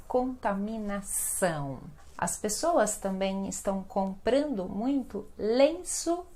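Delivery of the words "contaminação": Contaminação with a full nasal ão at the end; strong nasal. Shown as a demonstration. Teacher repeating the nasal word for learners, strong nasal. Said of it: "Olha o nasal bem forte aqui".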